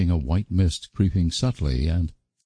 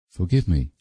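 pleading miserably. A narrator's reading. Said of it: "pleaded Anne miserably".

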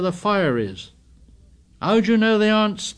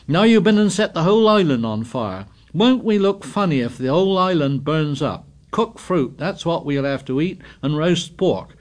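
louder, higher, faster scolding; heated tirade; 7 semitones higher, 5 dB louder than usual. A narrator's reading. Piggy ranting at the boys, raised and fast. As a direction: pour out the grievances.

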